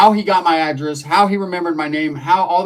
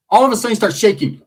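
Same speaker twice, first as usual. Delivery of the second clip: high, loud burst of laughter breaking through the line; laughing too hard to keep telling it; cracking up; 14 semitones higher, 7 dB louder, faster than usual. Real, not acted. Comedian losing it over his own story, laughing loud.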